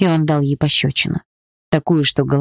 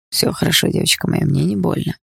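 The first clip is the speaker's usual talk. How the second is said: comforting whisper. Acted. Beaten Bars comforts his girl.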